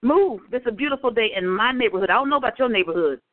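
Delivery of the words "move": higher, insistent move move; sassy repeated move, pitched up; firm shooing off. Retold or imitated. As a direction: shoo her off with attitude, not playing. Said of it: "then she tried to come and sit".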